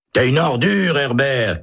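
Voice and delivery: high outraged insult; angry shout. A narrator's reading. Holt cursing Herbert, high and outraged. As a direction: spit the insult at him. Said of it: "crie Holt".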